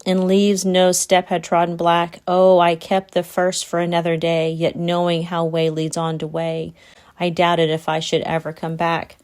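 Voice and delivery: measured poetry reading; poem recitation. Acted. Rereading a favourite stanza to listeners, measured recitation. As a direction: recite it evenly, line by line.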